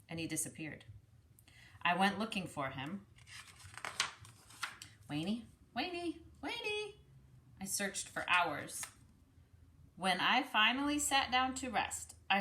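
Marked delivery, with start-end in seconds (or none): 5.1-6.9 calling out. Acted. Searching for lost brother.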